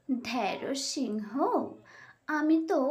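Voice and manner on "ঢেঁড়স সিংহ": slow, soft jeer; sly teasing name-calling; mocking taunt. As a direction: drawl the insult with scorn. Fox taunts the lion.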